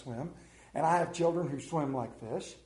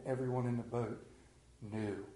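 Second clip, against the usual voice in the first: hushed awe; 7 semitones lower, 9 dB quieter than usual. Shown as a demonstration. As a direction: let the word knew fall in awe. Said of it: "The Bible records it".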